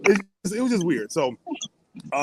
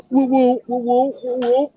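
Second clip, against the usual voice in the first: hype woo; 10 semitones higher, 4 dB louder, much slower than usual. Real, not acted. Hyping up the women listeners.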